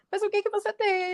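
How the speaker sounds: high, startled asking of a worried nanny; surprised concern. Retold or imitated. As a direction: ask in sudden alarm what's wrong. Nanny asks the crying boy. (tia surpresa pergunta ao menino, aguda e preocupada)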